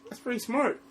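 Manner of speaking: high laughing protest. Real, not acted. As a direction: protest through giggles. Laughing rebuttal to co-host.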